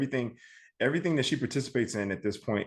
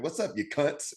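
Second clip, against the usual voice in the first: American accent; 5 semitones higher, 4 dB quieter than usual. Shown as a demonstration. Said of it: "boring ass American accent".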